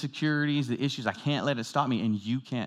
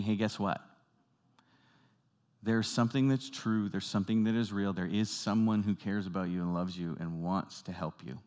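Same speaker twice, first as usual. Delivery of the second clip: softer, lower and gentle reassurance; calm voice; 3 semitones lower, 5 dB quieter than usual. Shown as a demonstration. Preacher showing the calm voice for people in struggles, soft and low. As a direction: speak like a calm voice to a trapped person. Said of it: "And it's that calm voice".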